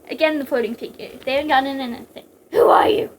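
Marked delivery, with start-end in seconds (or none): 2.5-3.1 loud, raised-pitch challenge; sharp shouted question; yell. A narrator's reading. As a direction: yell it at an intruder. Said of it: "Snake yelled".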